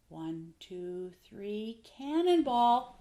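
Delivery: building to a big, loud, slow cannonball; child about to jump into the pool, shouting cannonball; excited cannonball. Retold or imitated. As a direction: call out cannonball like a kid leaping. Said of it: "Lila says".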